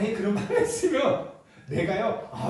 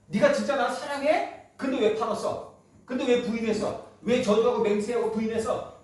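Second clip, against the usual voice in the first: accusing questions; 4 semitones higher than usual. Retold or imitated. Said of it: "그런 얘기가 아니라".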